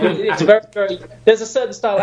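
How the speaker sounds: ordinary talk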